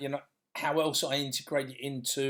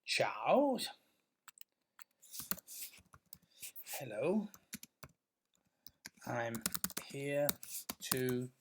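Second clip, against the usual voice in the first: slow read-out; 4 semitones lower, slower than usual. Shown as a demonstration. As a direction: read it out carefully word by word. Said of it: "I started with".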